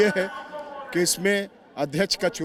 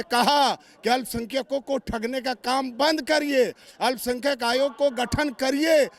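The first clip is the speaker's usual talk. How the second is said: raised, insistent rally-style oratory; political speechmaking; 4 semitones higher than usual. Real, not acted. Minority wing leader warning the government through a reporter, insistent oratory. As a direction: drive each phrase home like a stump speech.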